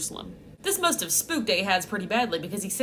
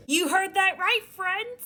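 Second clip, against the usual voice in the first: mock-excited outburst; 9 semitones higher, slower than usual. Real, not acted. Sarcastic outburst over pagan king.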